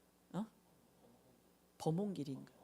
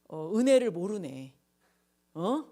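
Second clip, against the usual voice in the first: louder mock telling-off; imagined scolding; 6 dB louder than usual. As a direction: scold them like a fed-up judge, hammed-up. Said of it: "막 이렇게 하셨을까?".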